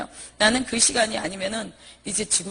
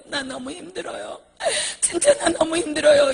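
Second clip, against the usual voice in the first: sobbing, breaking voice; crying to God that she is worn out; crying plea; 3 semitones higher than usual. Retold or imitated. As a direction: weep out the complaint. Retold prayer, crying.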